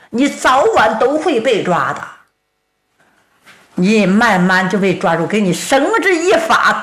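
downed fighter taunting his killer; defiant Tang Tieniu. Acted. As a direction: spit curses at the killer. Tang defies the villain on the ground.

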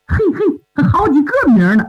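a light chuckle through the words; amused storyteller chuckle; chuckling. Acted. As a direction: laugh it off with amusement. Zheng Yin chuckles over the names.

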